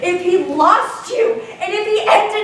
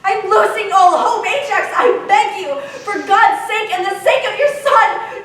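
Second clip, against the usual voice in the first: desperate pleading; 3 semitones higher than usual. Acted. Wife begs husband desperately.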